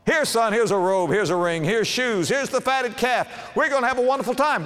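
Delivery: high, delighted father welcoming his son home; joyful father. Acted. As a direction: throw your arms open, high and happy. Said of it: "and he says".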